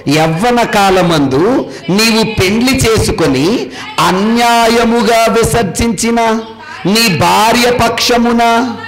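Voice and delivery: slow, measured reading of the verse; scripture reading. Acted. Pastor reading the verse to the congregation, slow and solemn. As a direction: read it out slowly like holy writ.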